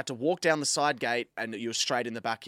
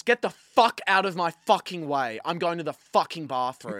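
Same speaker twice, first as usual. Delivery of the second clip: louder, higher, forceful swearing; hammered-up hostile order; retold angry demand; 4 semitones higher, 4 dB louder than usual. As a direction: act out her barging through. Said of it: "She didn't say it like that".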